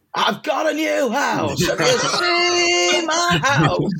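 very high shouted outburst, slow and drawn out. Retelling how Mark interrupted a rehearsal: imitating someone shouting. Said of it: "Mark started shouting".

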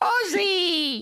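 high-pitched, crying impression voice.

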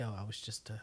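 dropped voice, very low, soft and hushed. Retelling how a man answers a woman who confronts him: voice dropped. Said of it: "his voice drops, like, three decibels".

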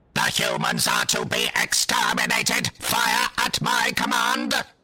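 metallic, grating, very high, slow, flat monotone. A Dalek in the ship's doorway confronts a small party of humans, in a metallic, grating Dalek voice. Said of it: "spoke in the metallic, grating voice".

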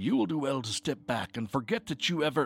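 fast, urgent, hissed words. A man to a stranger who then cuts him off: hissing. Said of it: "Erskine hissed".

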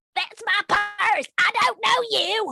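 put-on very high cartoon kid voice, pitch pushed way up. Asked to do the bit again, repeating it for the others, Bobby Hill impression. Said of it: "that's a really fucking good impression".

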